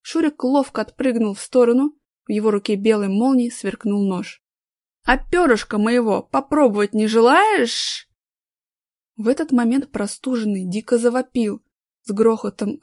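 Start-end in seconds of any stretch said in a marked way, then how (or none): 5.0-8.1 slow menacing knife taunt; mustache twirling villain. Acted. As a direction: savor the threat slowly.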